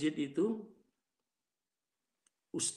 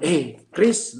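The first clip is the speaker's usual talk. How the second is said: retold call-out; 8 dB louder than usual. Retold calling out to sibling.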